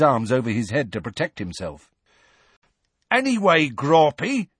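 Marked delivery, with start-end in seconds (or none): 3.1-4.5 raised, higher-pitched call; Hagrid shouting. A narrator's reading. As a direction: call up to someone far above you. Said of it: "shouted Hagrid".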